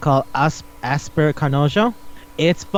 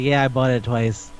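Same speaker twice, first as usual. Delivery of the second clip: matter-of-fact; 4 semitones lower than usual. Retold or imitated. Acted matter-of-fact answer to that question.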